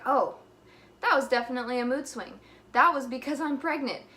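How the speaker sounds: sudden realization. Retold or imitated. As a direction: act out it suddenly dawning on you. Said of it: "later I'll be like".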